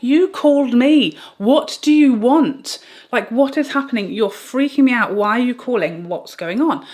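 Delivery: loud, high, frantic protest at the caller; exasperated yelling. Retold or imitated. Mother to the confusing caller, loud frantic protest. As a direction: half-shout it, fed up and rattled.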